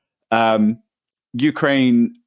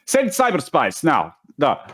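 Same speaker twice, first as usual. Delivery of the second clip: mock Russian accent; 4 semitones higher than usual. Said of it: "I'm not gonna try and do a Russian accent".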